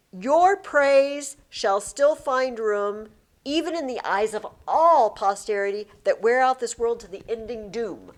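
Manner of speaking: dramatic sonnet reading; poem reading. Shown as a demonstration. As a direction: read it like verse, deliberately. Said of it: "reading sonnet aloud".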